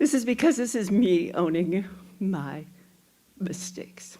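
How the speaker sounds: loud, on the verge of tears. Addressing the community to own her mistakes, on the verge of tears. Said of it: "I feel like I'm going to cry".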